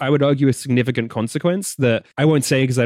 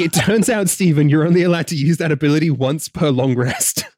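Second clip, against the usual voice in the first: laughing; 4 semitones higher than usual. Real, not acted. Laughing mock rules lawyer.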